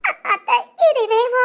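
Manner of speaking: slow, broken sobbing words; weeping bride clinging to her aunt. Acted. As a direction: choke on the words.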